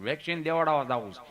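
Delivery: lightly voiced low-pitched friend; friend's voice. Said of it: "મને કે".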